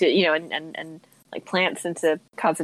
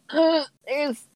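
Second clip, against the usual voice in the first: higher, mock-squeamish "ugh" aside; grossed-out inner thought; 7 semitones higher than usual. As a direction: voice a snap judgment with a wince. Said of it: "I'm a little bit like".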